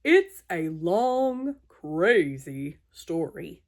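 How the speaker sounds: slow, dropping weary elephant; long crazy story. Acted. Gerald warns Piggy the story is long, slow and weary. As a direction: drag it out wearily.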